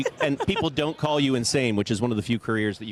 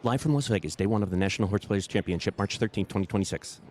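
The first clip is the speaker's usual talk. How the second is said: disclaimer voice; 2 semitones lower than usual. Shown as a demonstration. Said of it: "in my disclaimer voice".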